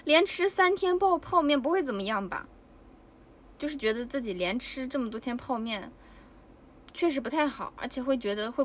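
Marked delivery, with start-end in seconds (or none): 0.0-2.5 raised, slowed retold question, loud but casual; a plainly loud backstage question; fairly loud question. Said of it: "比较正常大声地说了一句".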